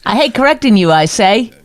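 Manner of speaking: a hint of a turn-of-the-century gent; old-timey voice. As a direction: lightly play an old-fashioned gent. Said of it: "What era talks that way".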